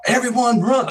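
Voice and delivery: mock alarm call, pitched high; high, urgent retold cry; retold warning. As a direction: imitate someone raising the alarm, without really shouting. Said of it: "something like this".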